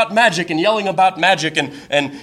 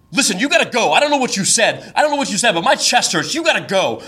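upset demand; 5 semitones higher than usual. Retold or imitated. Date shouting at homeless man.

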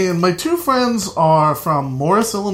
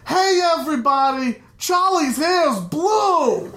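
mild mock yell; 9 semitones higher than usual. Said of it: "I hear him yell to everyone downstairs".

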